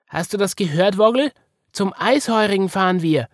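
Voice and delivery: high, loud bunny calling down to a friend; excited calling out. A narrator's reading. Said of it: "rief Wiggle zu Woggle runter".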